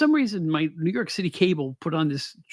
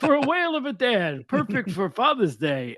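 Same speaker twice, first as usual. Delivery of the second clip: gravelly ad announcer; 5 semitones higher than usual. Retold or imitated. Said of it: "He had this gravelly voice".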